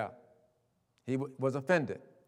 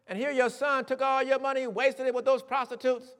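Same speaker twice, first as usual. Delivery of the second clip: resentful son; 7 semitones higher, 3 dB louder than usual. Retold or imitated. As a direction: list every grievance bitterly. Son's grievance to father.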